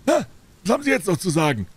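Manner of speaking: hohe, laute Händlerstimme; triumphierender Händler. A narrator's reading. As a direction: auftrumpfend den Kunden abfragen. Dealer triumphs over Holmes. (rechthaberischer Geflügelhändler)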